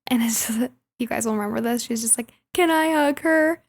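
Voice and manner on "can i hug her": emotional. Retold or imitated. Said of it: "Chessie is so emotional".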